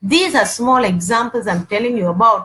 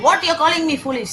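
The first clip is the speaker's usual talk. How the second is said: higher-pitched mock indignation; irritated retort; 6 semitones higher than usual. Wife answering husband who called her foolish, irritated. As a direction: fire back like an offended wife. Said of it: "And you get irritated".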